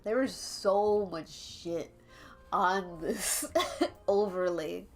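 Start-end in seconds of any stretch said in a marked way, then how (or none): none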